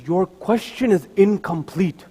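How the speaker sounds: slow, soft and unhurried; calm. Acted. Young Imam calmly answers the chief justice, slow and soft. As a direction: answer with quiet calm, no rush. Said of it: "The Imam very calmly says".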